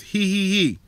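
imitating a smug little laugh; a quick mocking he-he-he. Mimicking the cops laughing at him. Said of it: "and laughed".

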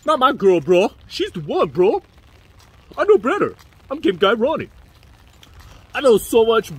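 loud, hammed-up bro defending his girlfriend; coping boyfriend. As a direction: protest like a lovestruck bro, pushed loud.

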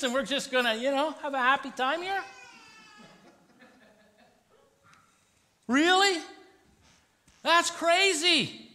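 sarcastic. Retold or imitated. Preacher voicing the disciples scoffing at Jesus, sarcastic and high. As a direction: scoff at the idea like a doubting disciple. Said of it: "I read a little bit of sarcasm in here".

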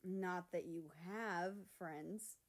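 very slow, dry jab; sharp jab. Acted. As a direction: drop it slowly and dryly. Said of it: "his sharp tongue".

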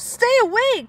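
high, loud screech; toucan screeches. Acted. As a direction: screech at the hummingbird. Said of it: "Toucan screeches".

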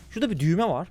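ordinary talk

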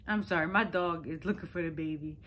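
amused aside through a laugh; half-laughing, half-distracted apology. Real, not acted. Interrupts story, laughing at dog.

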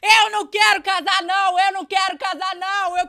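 high, loud mimicked yelling; catchphrase imitation. Rival taking her turn copying a viral clip, high and loud all through. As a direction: belt the whole line out high.

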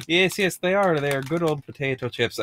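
playful mock British accent; jokey British accent for snack talk; put-on accent. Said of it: "I just picked that accent for that".

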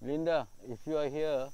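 loud high call; calling loudly into the dark. Real, not acted. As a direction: announce to the spirit. Calling to spirit.

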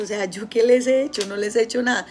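a touch of hurt; voicing her own past hurt; hurt complaint. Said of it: "yo me sentí súper mal y yo dije".

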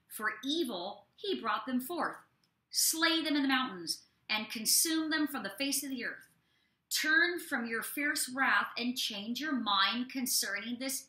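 measured, deliberate Bible reading; scripture reading. Acted. Pastor reading Exodus to listeners, measured scripture reading. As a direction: read the verses out with weight.

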